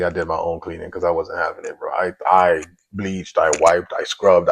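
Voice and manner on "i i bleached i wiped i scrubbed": louder and louder, punching each verb; rising emphasis on each chore; emphatic list. Real, not acted. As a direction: hammer bleached, wiped, scrubbed one by one. Listing her cleaning.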